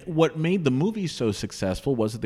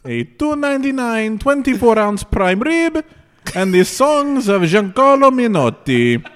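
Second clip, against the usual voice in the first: Vegas lounge announcer; 7 semitones higher, 7 dB louder than usual. Pretend. Mock Vegas headliner billing.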